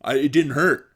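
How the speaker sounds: mock holding back tears; imitating tearful denial. Friend with a hit shin denying tears, mock tearful. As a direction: act out a hurt kid denying it. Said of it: "the moment they start crying".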